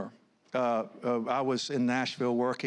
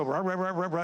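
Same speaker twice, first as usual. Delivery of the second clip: mumbling imitation; 5 semitones higher than usual. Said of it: "he mumbled".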